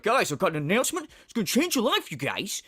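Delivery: mock big announcement; quick, hammed-up build-up; Phil impression. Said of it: "and he's like".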